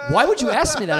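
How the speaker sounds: high-pitched imitation of alarm; retold freaked-out protest. Guest imitates the date's reaction, mock freaked-out. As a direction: act out a startled, affronted question. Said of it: "he got really freaked out".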